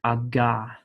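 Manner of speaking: "aga" with a hard G; demo of gimel. Shown as a demonstration. Teacher to students, sounding out the gimel. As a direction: say "aga" with a firm G stop. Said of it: "the gimel".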